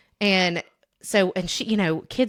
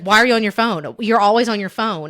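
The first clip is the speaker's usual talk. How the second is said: louder, lightly imitated parental nagging; mild mock nagging; 5 dB louder than usual. Daughter imitating parents about her phone, mild mock nagging. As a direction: nag a little, as an imitation.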